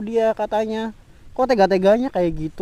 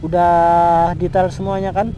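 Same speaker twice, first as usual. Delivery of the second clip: sharp angry word; 7 dB louder than usual. Acted. Acted breakup quarrel.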